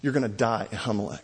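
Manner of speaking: angry threat. Retold or imitated. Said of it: "Saul gets angry".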